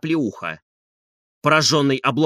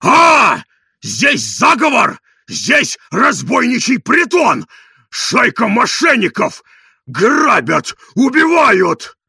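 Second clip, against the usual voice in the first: slow, loud, higher outcry; hysterical ranting; 8 semitones higher, 8 dB louder, much slower than usual. A narrator's reading. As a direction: cry out as if robbed. Ranting about a robbers' den.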